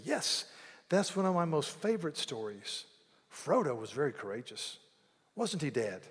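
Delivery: put-on high, bright little-kid voice, asking dad; eager child voice. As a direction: play the excited child begging for a story. Child asks dad about story.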